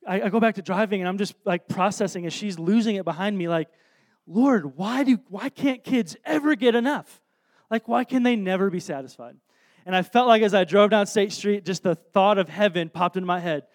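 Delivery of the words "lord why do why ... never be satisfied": exasperated plea. Retold or imitated. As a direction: mock-desperate parent appealing to heaven. Retold exasperated plea to God.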